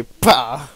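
short popped slap noise; imitated slap. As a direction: punch out a slap sound effect. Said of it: "they go over and they".

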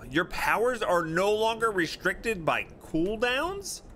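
surprised. Real, not acted. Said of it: "rereads as question".

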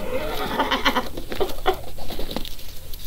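soft, voiceless wheeze of laughter; breathy laugh. Real, not acted. Host teasing Jen about her name, wheezy laugh. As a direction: laugh almost without voice.

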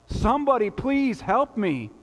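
high, loud yell for help; crying out. Acted. Man hanging off a cliff yells for help, crying out. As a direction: shout it out desperately, pleading. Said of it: "he begins to cry out".

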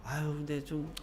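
mother grumbling quietly about the result; muttering mother. Retold or imitated. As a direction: mutter the disappointment under your breath. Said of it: "중얼중얼대면서".

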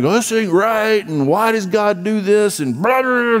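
mock complaining. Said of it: "you're cussing and screaming and upset".

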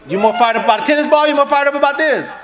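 fired up. Real, not acted. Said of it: "preacher rousing the crowd".

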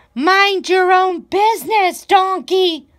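high, bleating sheep voice telling Donkey off. A narrator's reading. Sheep bleats at Donkey to mind his business. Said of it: "bleated Sheep".

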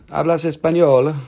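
lightly put-on Spanish delivery. Seller playing with Spanish for viewers, Spanish accent. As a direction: say it in plain playful Spanish. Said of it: "with Italian accento".

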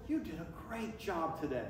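low, soft compliment; imitating a quiet, kindly compliment; soft praise. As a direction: gently hand out praise, dropped in pitch and volume. Acted compliment after the sermon.

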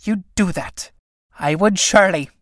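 high, loud Irish scolding; scolding tinker woman. Acted. Tinker woman curses the priest.

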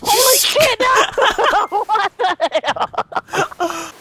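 real startled yell. Real, not acted. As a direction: yell in sudden alarm. Startled by events in game.

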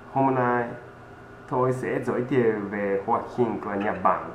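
usual speaking voice

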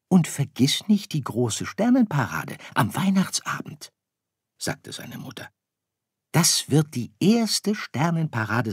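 höher und lauter, werbend; ermunternde Sternenmutter. Acted. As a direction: die Mutter will Sirius für die Parade begeistern. Mutter ermuntert Sirius. (leicht gespielte Mutter, lockend)

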